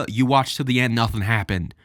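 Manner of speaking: exasperated. Real, not acted. Mocking the clickbait video.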